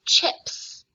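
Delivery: unvoiced shout of chips; whisper yelling. Shown as a demonstration. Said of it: "whisper shout at your computer".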